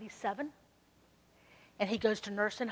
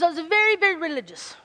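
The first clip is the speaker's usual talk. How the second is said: imitating Hank; 4 semitones higher, 8 dB louder than usual. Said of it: "I'm gonna try to imitate Hank".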